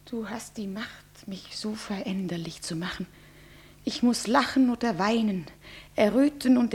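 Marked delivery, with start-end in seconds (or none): 0.1-3.1 much softer, whispered confession; tearful whisper. Acted. Bride whispering to her lover why she weeps. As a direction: hush it to him, almost gone.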